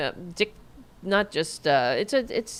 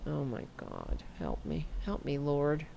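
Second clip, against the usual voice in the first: mock pleading; 7 semitones lower, 11 dB quieter than usual. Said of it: "computer crashed".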